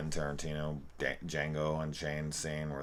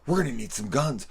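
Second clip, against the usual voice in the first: higher, louder panicked demand; rising alarm with a raised voice; losing it; 8 semitones higher, 5 dB louder than usual. Retold or imitated. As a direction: start to lose your cool. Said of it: "Dick loses it".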